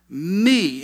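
long "me" held alone after a pause; emphasis on "me". Shown as a demonstration. Preacher quoting Paul on Christ's love, emphatic. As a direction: set "me" apart and lean on it. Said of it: "emphasis on the word me".

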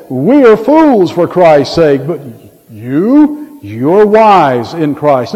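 slow, pointed mock humility; sarcastic. Paul contrasting himself with proud believers, slow sarcasm. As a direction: lean on YOU with drawn-out mock praise. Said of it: "He's being very sarcastic".

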